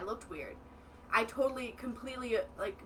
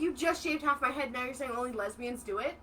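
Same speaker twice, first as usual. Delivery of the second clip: indignant; 2 semitones higher than usual. Retold or imitated. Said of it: "I was so mad".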